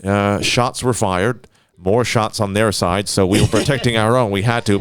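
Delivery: slow, hedging official statement; mocking cautious officials; stiff official spokesman. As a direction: drone like a careful press officer. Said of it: "a lot of people be like".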